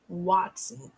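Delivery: Watson said slowly in two beats; slow model word. Shown as a demonstration. Teacher modeling a word for kids, slow and clear.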